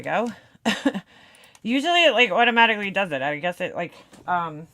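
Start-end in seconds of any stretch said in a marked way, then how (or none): 1.6-4.7 breathless after running upstairs; panting between words; out of breath. Real, not acted. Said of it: "Sorry, I'm out of breath".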